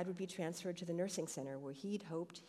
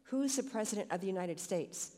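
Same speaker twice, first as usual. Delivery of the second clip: the nurse calls out higher, pressing the question; raised voice; 4 semitones higher, 3 dB louder than usual. Acted. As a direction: speak up as if he didn't hear. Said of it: "She raised her voice".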